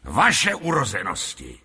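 lightly voiced humble flattery, words drawn out; bow and scrape, then build to the announcement; obsequious showman. Lotrando humbly offers the lord a show, obsequious showman.

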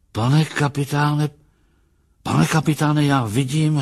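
high, urgent calling; overwhelmed, near tears. A narrator's reading. Lustig tells the captain what he sees, overwhelmed and near tears. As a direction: call the captain, overcome by the sight. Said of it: "a dal se do pláče".

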